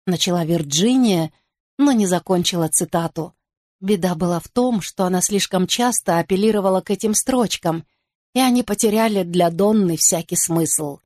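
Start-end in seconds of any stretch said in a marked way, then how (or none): none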